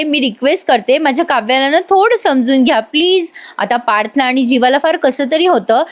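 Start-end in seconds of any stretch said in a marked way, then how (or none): 0.0-3.3 mildly pleading request; imitated pleading. Nandini begging the aunt to understand Kavya, mildly pleading. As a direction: plead gently on someone's behalf. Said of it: "Nandini हात जोडून म्हणते".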